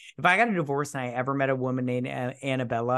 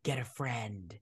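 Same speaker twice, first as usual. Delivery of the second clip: curt dismissal; 2 semitones lower, 9 dB quieter than usual. Retold or imitated. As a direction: imitate an unmoved brush-off. Retold curt reply to mother.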